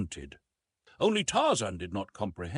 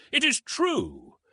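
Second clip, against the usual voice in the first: higher, slow, louder amazed realization; 5 dB louder, slower than usual. A narrator's reading. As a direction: let the truth sink in, amazed. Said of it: "Clayton started back in surprise".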